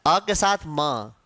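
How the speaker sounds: "अ के साथ म" slow and low, म sounded apart; sound breakdown. Shown as a demonstration. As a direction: split अम slowly into अ plus a separate म. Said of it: "साथ में व्यंजन लग गया".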